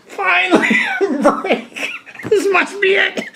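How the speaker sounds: a light mock cheer through laughter; relieved excitement.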